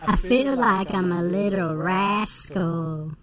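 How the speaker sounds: put-on country accent. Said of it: "I've got this sweet country accent".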